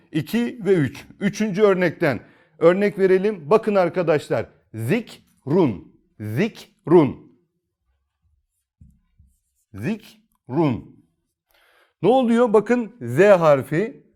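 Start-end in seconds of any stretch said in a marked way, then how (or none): 4.7-11.1 "zikrun" recited in tajweed style; Kur'an okur gibi "zikrun"; Quranic recitation. Shown as a demonstration. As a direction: chant "zikrun" as in Quran reading, one word at a time. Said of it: "durak olduğu için".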